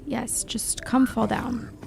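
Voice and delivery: coaxing unvoiced whisper; hushed whisper to the ghast. Real, not acted. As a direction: whisper to lure it down. Luring a ghast quietly.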